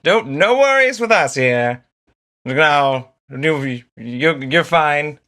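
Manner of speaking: high, bright, laughing reassurance; breezy pep talk to the crowd; cheery reassuring Trax. Acted. Trax reassures the burned townsfolk, high cheery voice. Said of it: "Trax is walking down the street going like".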